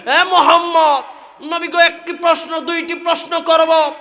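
challenging questioner. Acted. Habib challenges the Prophet.

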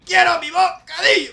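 high furious shout; angry demand. Pretend. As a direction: howl it like a tantrum. Rampaging office worker in game.

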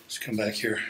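winded from walking; breathless after the stairs; out of breath. Real, not acted. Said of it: "Getting a little out of breath".

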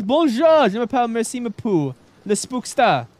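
mock French greeting; hammy French-speaker voice; French accent. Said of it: "Speak French?".

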